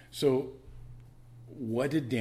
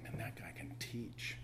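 awed whisper; 11 dB quieter, slower than usual. Retold or imitated. Awed crowd reacting to Jesus.

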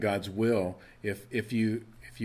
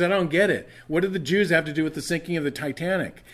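higher, louder baffled question; the Jewish man, baffled, asking loudly and higher; loud confused outburst; 6 semitones higher, 5 dB louder, faster than usual. Retold or imitated. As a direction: sound bewildered and worked up. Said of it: "scratches his head and he says".

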